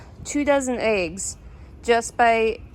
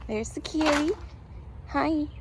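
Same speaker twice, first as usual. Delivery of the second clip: talking to a cat; 6 semitones higher, 6 dB quieter than usual. Real, not acted. Greeting her cat in garden.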